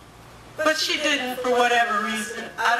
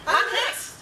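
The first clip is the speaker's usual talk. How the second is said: rueful laugh; 8 semitones higher than usual. Retold or imitated. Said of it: "at that point I decided".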